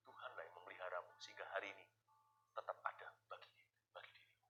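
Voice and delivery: soft whispered assurance. Real, not acted. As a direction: breathe it to the listener.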